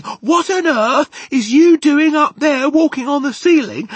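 high, loud sisterly yell; indignant high-pitched holler. A narrator's reading. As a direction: yell up at a naughty brother.

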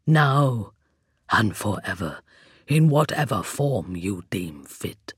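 a hollow voice from bare jaws; skeleton voice. A narrator's reading. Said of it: "the skeleton's voice came out from between its jaws like a rasping echo".

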